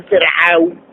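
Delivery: فرعون with a thin, light R. Shown as a demonstration. Teacher shows the contrasting example, light R in فرعون. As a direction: keep the R in فرعون light after the i. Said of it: "مرقق يكن للترقيق أقرب".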